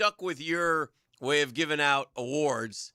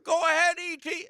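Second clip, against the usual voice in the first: high radio host voice; Hacker impression; 3 dB louder than usual. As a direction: hand the line to the caller like a host. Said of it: "That's my Hacker impression".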